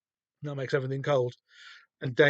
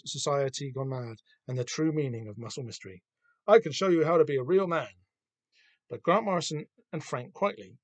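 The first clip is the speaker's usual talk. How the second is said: ad read; 2 semitones higher than usual. Acted. Reads comic ad aloud.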